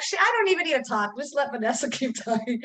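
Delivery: high, amused imitation of the husband; mock husband voice. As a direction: play him teasing that she talks a lot. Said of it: "He's like".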